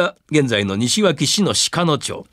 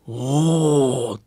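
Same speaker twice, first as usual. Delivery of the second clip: crowd ooh; 3 semitones lower than usual. Acted. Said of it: "歓声に近い声が上がった".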